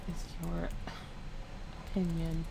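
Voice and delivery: put-on low soft-spoken old lady voice; sweet old lady. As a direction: play a gentle old lady collecting signatures. Persona introducing herself, petition.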